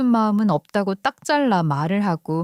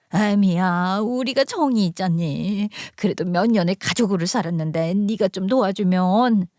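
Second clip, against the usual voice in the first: put-on coaxing older relative, understated; lightly voiced mother-in-law. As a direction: appeal gently to family ties. 시어머니가 정에 호소. (시어머니가 은근히 달래듯)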